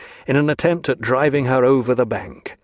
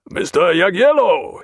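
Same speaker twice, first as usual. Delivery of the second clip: higher, louder calling a name; called out; 6 semitones higher, 4 dB louder than usual. A narrator's reading. Captain calling his officer, called out. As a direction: call him across the deck. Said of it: "he called".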